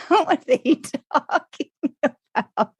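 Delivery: high, slow mock bewilderment; retold bafflement. American imagines Brits hearing Americans, high mock-baffled question.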